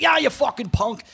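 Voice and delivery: high, sing-song mock insult; mock angry rival. Imitating Ian sneering at the young surfer. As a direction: lampoon the rival calling him a punk. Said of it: "And he's like".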